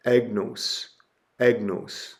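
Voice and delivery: "agnos" as AG-nohs, two clear syllables; accent demonstration. Shown as a demonstration. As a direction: model "agnos" carefully with a long o. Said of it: "Or the circumflex is".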